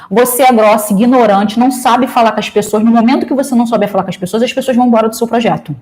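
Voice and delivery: retold blunt telling-off, rushing on at the end; mildly harsh mock scolding; harsh rebuke. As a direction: imitate someone rudely dressing a person down. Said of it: "se assustou do jeito que eu falei".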